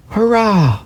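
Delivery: high excited rabbit voice; rabbit's joyful thought. A narrator's reading. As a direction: cheer it out like a tiny toy rabbit. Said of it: "thought the little rabbit".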